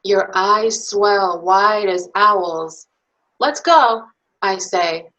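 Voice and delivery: put-on lively, expressive bedtime story read to little kids; reading to children. Reads picture book to children.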